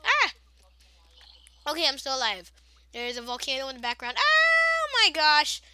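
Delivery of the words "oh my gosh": drawn-out, much higher oh my gosh; shocked gasp. Real, not acted. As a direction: stretch it out in real alarm. Volcano erupting in game.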